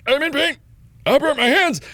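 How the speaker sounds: high whiny plea; whiny pleading. Retold or imitated. Patient pleading with the ER receptionist, high and whiny. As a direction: plead like a hurt kid at the counter.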